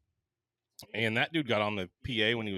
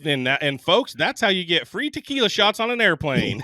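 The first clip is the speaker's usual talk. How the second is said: louder, higher pilot on the PA; captain announcement; 6 semitones higher, 7 dB louder than usual. Retold or imitated. Captain wrapping up to the passengers, loud and high. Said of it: "the captain comes on".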